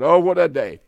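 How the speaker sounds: pleading radio prayer over the listeners; fervent prayer. Acted. Preacher praying for his radio audience, fervent and pleading. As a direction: pray earnestly for sinners all over the globe.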